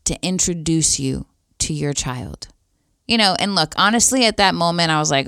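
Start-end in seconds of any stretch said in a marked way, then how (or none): 0.1-2.5 gentle and loving. Retold or imitated. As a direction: imitate a lovingly spoken invitation. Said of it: "very gently and lovingly said".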